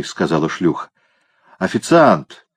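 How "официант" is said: cat calls the waiter over; a mild, drawn call for service. A narrator's reading. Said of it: "позвал кот". (кот подзывает официанта)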